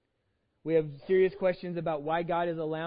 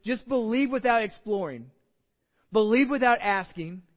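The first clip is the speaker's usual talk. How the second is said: mock demanding God; 5 semitones higher, 7 dB louder than usual. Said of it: "we think that he says".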